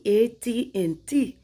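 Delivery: A T and T as four words, "ay tee and tee"; American pronunciation. Retold or imitated. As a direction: spell out A T and T letter by letter, slowly. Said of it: "that's not how it's said in America".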